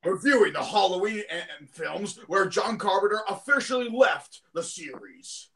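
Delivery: lightly voiced anime recap narrator; Kyle Ebert. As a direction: recap it like a cartoon announcer. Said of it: "That's my Kyle Ebert impression".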